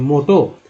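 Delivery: मोटो with the double O said as ओ; vowel sounded ओ. Shown as a demonstration. Teacher answering how double O is read, मोटो said with ओ. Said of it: "तो दोस्तों ओ बोलते हैं".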